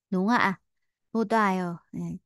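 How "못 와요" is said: 못 와요 run together with a t sound; linked sounds. Shown as a demonstration. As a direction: link 못 into 와요 through a t sound. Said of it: "nối âm lên thành chữ tờ".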